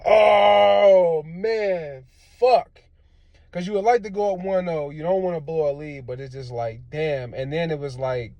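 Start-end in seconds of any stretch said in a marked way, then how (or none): 0.0-2.8 anguished shout. Real, not acted. Anguished outburst at collapse.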